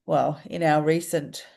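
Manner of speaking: stuffy, congested nose; blocked nose. Real, not acted. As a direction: talk through a stuffed-up nose. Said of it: "sorry, my nose is really blocked".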